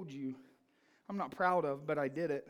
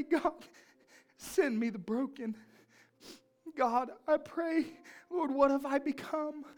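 fervent prayer; 4 semitones higher than usual. Retold or imitated. Retold prayer crying out to God.

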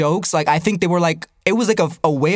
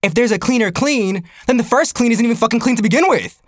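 higher, livelier argument; indignant realisation; 4 semitones higher than usual. Retold or imitated. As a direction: argue the logic with rising disbelief. Reenacts his indignant realisation.

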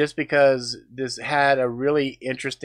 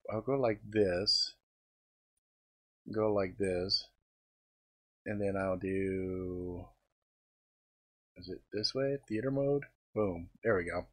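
muttering to self; 5 semitones lower, 11 dB quieter than usual. Real, not acted. Adjusting screen settings, muttering.

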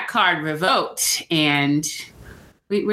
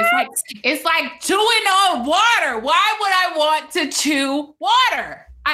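disgusted; 10 semitones higher than usual. Real, not acted. Disgusted rant about watermelon.

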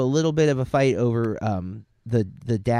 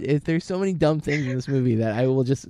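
laughing; 2 semitones higher than usual. Real, not acted. Recovering from laughing fit.

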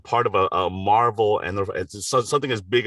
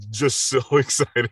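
excited laugh; 5 semitones higher than usual. Real, not acted. Laughs while telling own excitement.

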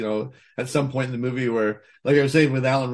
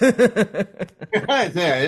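mock posh English accent; 8 semitones higher, 5 dB louder than usual. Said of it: "better English accent".

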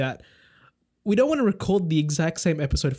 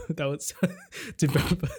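laughing. Real, not acted. Laughing through a stumble.

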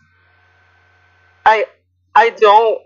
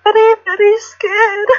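timid creature voice; 12 semitones higher than usual. Acted. Frightened little creature speaks.

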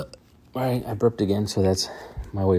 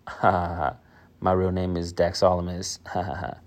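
Dax laughing. Pretend. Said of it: "Let me call up Dax Prescott".

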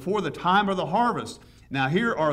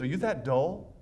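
mock exasperated Paul. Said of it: "that's what he says".

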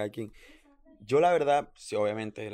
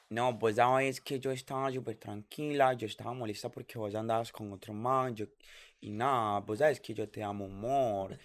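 put-on slow, sing-song Colombian paisa girlfriend; imitating paisa accent. Mocking how paisa women talk online, slow paisa singsong. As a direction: mimic an overdone Medellín accent from social media. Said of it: "los paisas hablan así".

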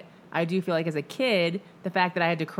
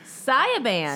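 teacher misreading name; 6 semitones higher, 3 dB louder than usual. Retold or imitated. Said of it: "I would be like".

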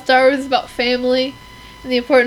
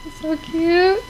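gushing cute voice; 5 semitones higher than usual. Real, not acted. Gushing over fluffy porgs.

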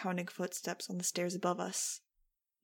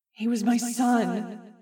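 slow, loud, higher anguished wail; anguished cry; 4 semitones higher, 11 dB louder, much slower than usual. A narrator's reading. Jeb crying out after Max in anguish, loud and slow. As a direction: cry it out in grief and rage. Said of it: "Jeb's anguished cry".

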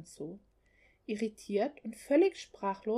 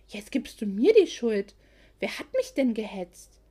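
angry reproach; 6 dB louder than usual. Acted. Couple bickering over wrong gift.

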